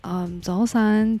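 早晨 drawn out slowly in Cantonese tones; Cantonese greeting. Shown as a demonstration. Learner teaching listeners Cantonese good morning, slowly. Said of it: "早晨是早安".

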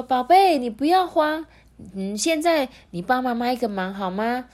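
put-on steady a frightened child and ask for help; reassuring mother. A narrator's reading. Injured mother tells her baby not to panic, reassuring.

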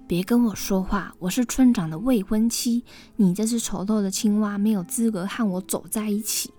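cold. Acted. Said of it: "冷冷地回应".

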